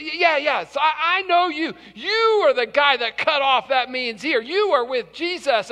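insistent accuser. Acted. Second accuser insists to Peter.

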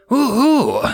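high loud victory whoop. Acted. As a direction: let out a thrilled cheer. Pilot whoops after strafing run.

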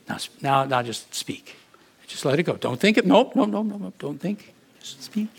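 quick, insistent stop-stop urging; urgent coaching. Retold or imitated. Pastor coaches the analytical man to stop thinking, urgent. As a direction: snap him out of overthinking.

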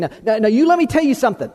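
quick, pointed mock warning; finger-in-your-face warning. Preacher imitating someone poking a finger in your face, quick mock warning. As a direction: jab the words like a finger in the face. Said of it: "somebody sticking a finger right in your face".

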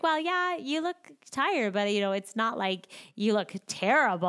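a lifted, kindly inner voice. Retold or imitated. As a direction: soothe yourself like a friend would. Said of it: "the voice that's in my head is like".

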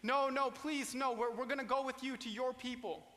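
lightly acted tearful plea; mild pleading cry. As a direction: retell the daughters begging not to be sent away. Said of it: "they're crying out and they're saying".

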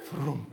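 short low "frum" of something passing; imitated whoosh. Telling of a shadow crossing the room, imitated whoosh. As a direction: voice a shadow darting by. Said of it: "pasa de un lado a otro".

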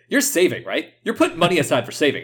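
light Brooklyn accent impression. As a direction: do a pushy Brooklyn guy checking up on someone. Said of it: "saying this, all this heavy Bro-, Brooklyn accent".

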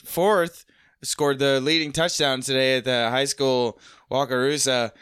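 slow local news read; news anchor voice. Shown as a demonstration. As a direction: read it like a small-town anchor. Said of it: "trying to emulate the voice".

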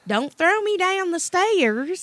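high, slow quavering grandma voice; mock old grandma. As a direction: plead like a frail grandma. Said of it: "look at you and be like".

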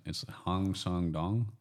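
slow, careful Canadian-accented Hang Song Dong. Shown as a demonstration. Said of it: "with a Canadian accent".

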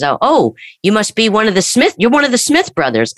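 chirpy clerk mistaking him for someone; store clerk. Retold or imitated.

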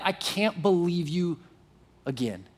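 slow, soft, let-down "again" trailing low; disappointed tone. Retold or imitated. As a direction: imitate a fed-up, disappointed sigh. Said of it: "type of tone".

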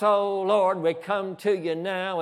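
mock an overdone pious prayer; sing-song prayer voice. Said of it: "maybe with a sing-song voice".

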